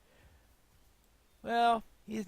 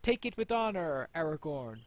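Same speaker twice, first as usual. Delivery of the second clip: slow, ceremonial lord's voice; solemn presentation; slower than usual. Acted. Player voicing Elrond handing Anduril to Aragorn, solemn. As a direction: present the sword with gravity.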